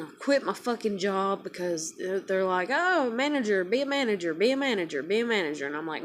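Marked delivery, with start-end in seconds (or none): 2.7-5.7 singsong mimicked pestering, starting high and falling; mock nagging. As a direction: imitate bosses pestering on a loop. Mimics bosses pushing a promotion.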